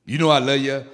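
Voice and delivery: casual brush-off reassurance; offhand. Shown as a demonstration. Preacher imitating someone dodging saying it properly, offhand. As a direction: toss it off without emphasis. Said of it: "I ain't say that".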